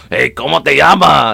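slow, hammed-up Mexican accent; stereotypical Mexican accent. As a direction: imitate a Mexican man greeting someone. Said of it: "that was stereotypical, like, Mexican dude".

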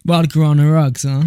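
mocking American accent. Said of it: "Why did I say that".

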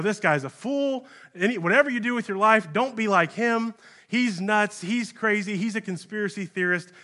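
a lightly voiced mocking neighbour; scoffing townsman. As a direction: sneer at Noah as a fool. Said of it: "You've been saying, you know".

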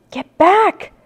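high, loud warning shout; urgent shout. A narrator's reading. Jack orders Annie back from the Triceratops, shouting. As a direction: shout her back from danger. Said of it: "Jack shouted at her".

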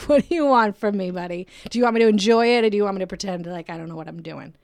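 fed-up venting at a confusing guy; mock frustrated outburst; exasperated rant.

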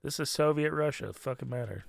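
badly faked Russian accent, unimpressed; half-hearted Russian impression; horrible Russian accent. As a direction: do a clumsy Soviet Russian accent. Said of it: "what is this horrible Russian accent".

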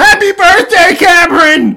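high, loud strained shriek; jealous shriek. Acted. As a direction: screech it through a jealous cry. Reprising the all-caps comment.

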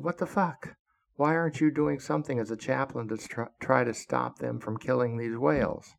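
demanding the chaplain act, voice up; indignant outcry. Retold or imitated. Retelling confronting the chaplain.

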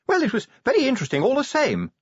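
high-pitched lady's voice; insisting wife. A narrator's reading. Narrator voices wife insisting to husband.

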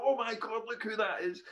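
high, loud mock delight; retold giddy recognition; excited gasp. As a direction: squeal it like spotting a celebrity. Staff recognising him in pictures.

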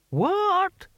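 put-on deaf old man. A narrator's reading. Old deaf barbarian keeps asking.

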